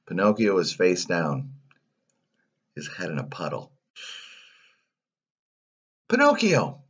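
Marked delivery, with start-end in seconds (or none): 6.1-6.8 high, stricken call of the name; anguished cry. Acted. Geppetto finds Pinocchio face down.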